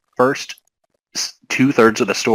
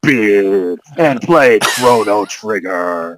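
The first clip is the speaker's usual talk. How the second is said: hammed-up TV ad pitchman; TV commercial announcer voice. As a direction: sell it like a cheesy commercial. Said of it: "T V commercial announcer voice".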